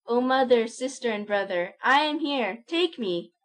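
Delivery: a loud, high, longing cry. A narrator's reading. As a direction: call to them with arms outstretched. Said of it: "stretched out his arms and cried".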